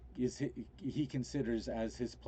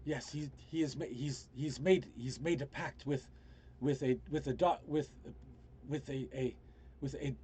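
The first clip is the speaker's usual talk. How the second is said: lightly voiced character, halting and pitched up; rescued man, urgent; 4 semitones higher than usual. Man warns of a planet brought to Terra, mildly agitated. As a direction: stammer out the warning, restarting as you go.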